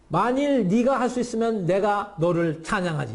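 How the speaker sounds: high, exaggerated mock promise. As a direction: taunt them with scornful, playful praise. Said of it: "극도의 조롱입니다".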